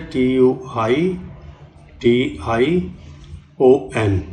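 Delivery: "टी यू आई" spelled slowly, then "टी आई ओ एन", each letter separate; careful correct spelling. Shown as a demonstration. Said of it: "और सही क्या होती है".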